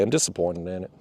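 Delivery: low, soft and let down; quietly disappointed. Real, not acted. Angler repeating his verdict on the motor, quiet and deflated.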